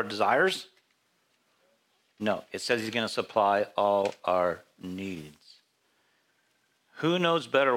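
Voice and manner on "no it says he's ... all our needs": "says" hit, and "needs" landed with a firm fall; stress on says. Shown as a demonstration. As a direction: answer the question with a firm "says", closing down on "needs". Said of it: "does it say he's gonna supply all our wants".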